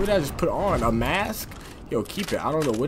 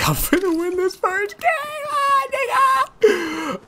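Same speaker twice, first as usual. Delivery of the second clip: high stretched joyful yell; hyped shout; slower than usual. Real, not acted. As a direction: belt it out like you've already won. Hyped about winning.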